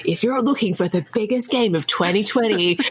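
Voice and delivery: lightly hammed-up trailer voice-over; half-serious announcer pitch; tongue-in-cheek trailer. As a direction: deliver a mock game ad, drawing out the punchline. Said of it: "where it was just like".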